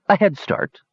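bright little kender voice tasting the words; surprised Cronin. Acted. Cronin echoes Toad's offer, lightly puzzled. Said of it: "repeated Cronin".

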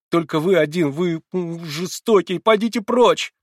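high, loud cry rising to a shriek; shouting. A narrator's reading. Girl ordering the old man away, rising shriek. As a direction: drive him out with a rising shout.

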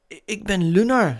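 hoog stemmetje, hakkelend begonnen; Lunar. A narrator's reading. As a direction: stel je aarzelend en hoog voor. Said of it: "zei het maanautootje". (hoog, luid maanautostemmetje)

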